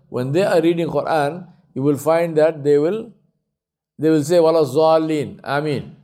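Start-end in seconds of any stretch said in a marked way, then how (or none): 4.4-5.9 "Zalin" with a plain z for Dad; Urdu-style Za. Shown as a demonstration. Teacher showing Urdu speakers' Quran recitation, z for Dad. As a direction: say "Zalin" with a buzzing English z. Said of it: "everything is pronounced Za".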